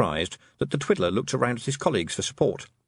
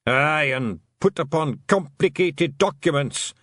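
high, slow Scottish clansman; dread-filled Scots voice; worried Feegle; 5 semitones higher, 4 dB louder, slower than usual. Acted. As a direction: intone the horror item slowly. Feegles voice dread of written words.

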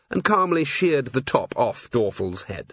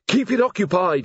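higher, louder urgent shout; calling across the factory floor to Angua; 8 semitones higher, 4 dB louder than usual. A narrator's reading. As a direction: call it out as he runs off. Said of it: "he shouted".

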